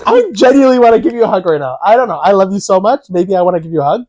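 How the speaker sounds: high, fast pleading to nephew; pleading uncle. Retold or imitated. Uncle begging his nephew for a hug, high and rushed. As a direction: beg the kid for a hug, rushing. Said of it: "But I was like".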